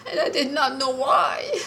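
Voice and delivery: barely holding back tears while telling it; choked up. Real, not acted. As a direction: voice breaking into real tears. Caller retelling traumatic theater experience.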